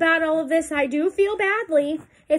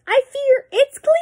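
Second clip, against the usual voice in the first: high, loud trumpeting elephant; elephant's warning; 13 semitones higher, 9 dB louder than usual. Acted. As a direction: warn everyone to stand back. Reading aloud to children.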